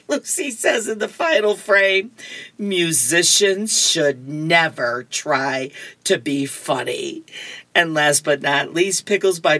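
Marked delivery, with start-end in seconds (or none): 2.6-7.2 slow, unimpressed put-down; unimpressed verdict. Acted. Lucy to Linus in the final frame, slow unimpressed verdict. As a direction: deliver it slowly, mildly disdainful.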